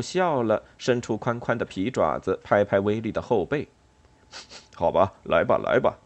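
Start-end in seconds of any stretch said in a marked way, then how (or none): 4.7-6.0 lightly amused, coaxing mole; lower-pitched, good-natured coaxing; smiling reassurance. A narrator's reading. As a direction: soothe a touchy friend. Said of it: "他笑着说".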